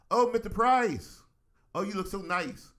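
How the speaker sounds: high, loud, slow mock Jamaican lady; sing-song greeting from the cabin lady. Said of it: "She was like".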